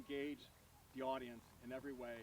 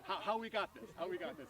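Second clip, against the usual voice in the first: higher, louder laughing disbelief; incredulous; 4 semitones higher, 4 dB louder than usual. Retold or imitated. Teller echoing his friend's boast back in laughing disbelief.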